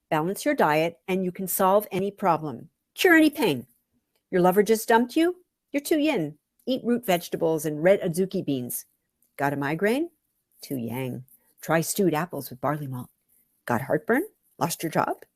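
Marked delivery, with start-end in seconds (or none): 2.9-8.8 mock sales pitch. Narrator mocking macrobiotic cures, hammed-up pitch.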